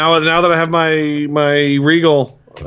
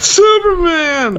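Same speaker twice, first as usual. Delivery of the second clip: excited; much slower than usual. Pretend. Swooning shout of actor's role.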